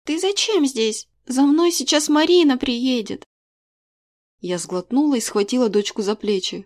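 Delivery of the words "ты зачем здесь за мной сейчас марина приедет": put-on girl's voice. A narrator's reading. Daughter confronts mother at school.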